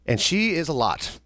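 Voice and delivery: normal talking voice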